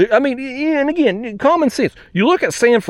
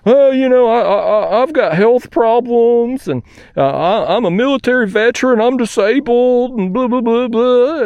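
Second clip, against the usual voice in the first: mock victim voice; 5 semitones higher than usual. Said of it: "right into the victim card".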